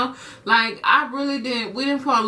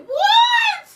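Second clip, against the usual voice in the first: much higher, louder laughing what; shocked shout; 5 dB louder than usual. Real, not acted. Daughter stunned by mom's remark, loud laughing shock. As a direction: yelp it in disbelief.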